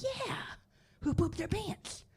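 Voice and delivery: put-on high, slow kid question; kids asking. Preschoolers asking who pooped, high and slow. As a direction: ask it like an eager kid. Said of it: "And they're like".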